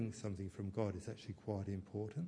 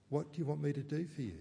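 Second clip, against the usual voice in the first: gentle question; 5 semitones higher, faster than usual. Retold or imitated. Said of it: "He says".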